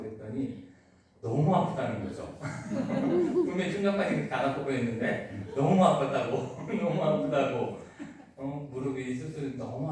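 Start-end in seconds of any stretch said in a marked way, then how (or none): 1.2-7.8 laughing while retelling. Real, not acted. Retelling the deaconess crying in pain.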